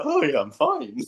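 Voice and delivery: put-on baby voice. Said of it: "the baby's like".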